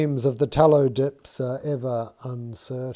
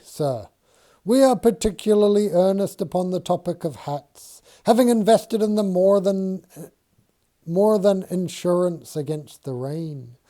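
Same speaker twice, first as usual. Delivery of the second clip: lightly voiced Dixon, higher and louder, earnest; earnest Quaker surveyor; 4 semitones higher, 4 dB louder, faster than usual. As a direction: plead the point with earnest dignity. Dixon answers Mason, earnest.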